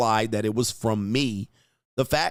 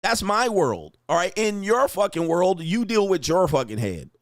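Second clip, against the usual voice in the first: raised, higher fired-up voice, pushing every line out; heated rant; 5 semitones higher than usual. Real, not acted. Host lecturing oversensitive people about his world, raised heated rant. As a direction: lay down the law about your world, voice up and hard.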